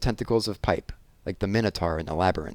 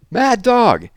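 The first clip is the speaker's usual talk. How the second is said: shrill scream of alarm, much higher and louder; panicked yell; 13 semitones higher, 9 dB louder than usual. A narrator's reading. Maid screaming a warning through the house, high frantic yell. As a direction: shriek it from the chair in terror. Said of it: "yelled Cuffy's voice".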